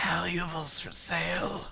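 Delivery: soft, throaty, high-pitched wheezing rasp. Narrating a cloaked figure beckoning to the players, wheezing, throaty and high-pitched. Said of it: "It wheezes".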